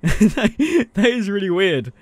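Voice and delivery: laughing. Real, not acted. Laughs at tiny lightsaber.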